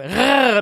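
short rolled growl; playful tiger growl. Pretend. (spielerisches Tigerknurren)

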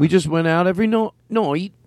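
put-on British vowels on "night"; affected British accent. Host tells friends about his trip, affected British accent. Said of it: "hearing just the slightest tinge of an accent".

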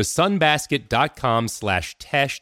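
deliberate announcer pace on the web address; slow ad URL read. Acted. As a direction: spell the address out slowly, each part apart.

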